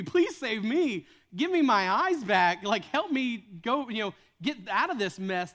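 slow, earnest plea for rescue; desperate slow prayer; pleading prayer. Pretend. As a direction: beg God slowly for help. Imagined desperate prayer to God.

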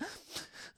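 quick breathy mock gasp; imitated gasp. Podcaster acting out Jen walking in, mock gasp. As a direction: mimic a sharp, upset intake of breath. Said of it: "and is like".

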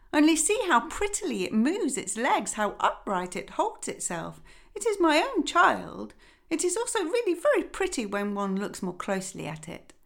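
lightly voiced fussy mother duck; a hint of a weary, busy mother; mildly fretful hen voice. Mother duck boasts and leads.

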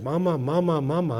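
put-on parent coaxing child. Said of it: "You want".

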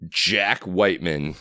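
deep, slow movie announcer; low, drawn-out mock-epic narrator; trailer voiceover. Podcaster spoofing a Christian film trailer, deep slow voiceover. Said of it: "just to go, like, you know".

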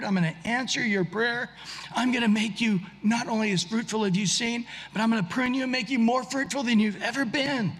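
a tender voice of God swelling into eager promise; building joyful promise. Retold or imitated. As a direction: pile on the promises with mounting joy. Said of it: "God's just like".

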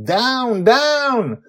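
high, loud barked command; urgent yell. A narrator's reading. Susie orders Grandpa Walt to the deck, yelling. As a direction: yell it to make them drop. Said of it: "she's yelling at me".

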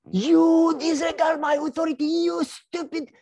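high, loud enraged rant; officer raging at the soldier, high and loud; furious officer. Retold or imitated. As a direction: spit the words out in fury. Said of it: "He started to talk fast and to mumble and to spit".

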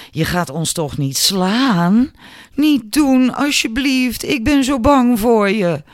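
high, loud sham pleading; mock fear. A narrator's reading. Albert ridicules Julia's threat, mock terrified. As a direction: taunt with an exaggerated, high-pitched plea. Bully mocks girl with stick.

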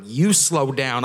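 slow, teasing "You slow down"; playful retort. Retold or imitated. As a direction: drag it out to tease her.

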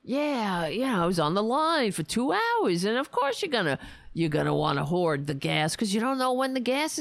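guy complaining at a bar. Retold or imitated. Barfly griping about the gas line, lightly voiced. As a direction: grumble on like a barfly who won't stop. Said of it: "guy at a bar just complaining".

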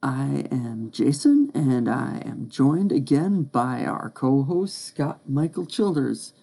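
slow, stiff robot voice. Real, not acted. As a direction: talk like a robot, slowly. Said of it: "Why am I talking like a robot?".

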